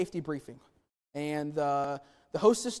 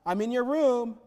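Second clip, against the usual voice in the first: put-on cheeky kid daring his brother, a bit louder; taunting kid; 4 dB louder, slower than usual. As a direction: taunt him like a bratty little boy. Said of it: "what does he say when he goes into Buzz's room".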